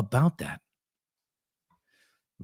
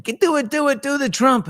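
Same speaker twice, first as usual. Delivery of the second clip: high, eager chant of urging; mock kids begging for the impression; kids egging on; 5 dB louder than usual. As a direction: egg him on, higher and louder. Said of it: "they're all saying".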